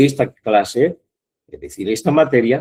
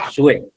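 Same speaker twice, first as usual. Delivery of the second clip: "sue" said alone, a little louder, as the stressed syllable; 3 semitones higher, 4 dB louder than usual. Shown as a demonstration. Teacher shows students the stressed syllable. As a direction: isolate and hit "sue".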